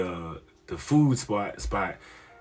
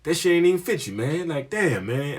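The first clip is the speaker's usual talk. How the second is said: put-on scolding old head; 5 semitones higher than usual.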